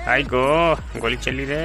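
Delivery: half-mock warning call; Shreeman Legend. Gamer repeating the voice pack's gunfire warning, mild mock alarm. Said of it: "श्रीमन लेजेंड में".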